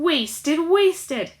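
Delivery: loud, high furious shout over the mess; angry shout. A narrator's reading. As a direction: bellow it at the crowd. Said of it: "Chugger was shouting".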